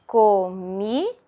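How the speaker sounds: "Comida" slowly split into co, mi, da; "Comida" in three separate, slow beats; syllable by syllable. Shown as a demonstration. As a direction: sound out "Comida" with pauses between syllables. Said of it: "a professora já separou falando".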